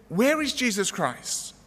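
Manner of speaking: slow, high-pitched careful enunciation. A narrator's reading. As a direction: repeat it slowly, each word made clear. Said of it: "A little bit more slowly, a little bit more loudly".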